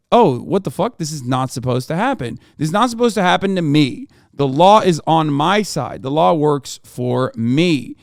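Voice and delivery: lightly acted indignant disbelief, rising on "me"; put-on outrage at the unfairness; mock shock. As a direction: imitate stunned, entitled protest, slowing into heavy emphasis. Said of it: "were shocked when".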